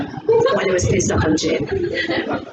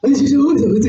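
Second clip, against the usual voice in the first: put-on doggy baby talk; 4 dB louder, much faster than usual. Thing where it's a dog.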